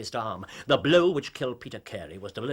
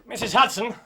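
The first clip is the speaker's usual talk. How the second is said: raised voice calling up the stairs; calling Missus Hudson to bring the men up; 6 semitones higher than usual. Acted. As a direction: call out to the landlady below. Calling the landlady upstairs.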